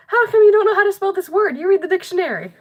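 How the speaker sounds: a classmate taunting the dictionary reader; mocking classmate. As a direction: needle her like a smug classmate. Classmate mocking her spelling.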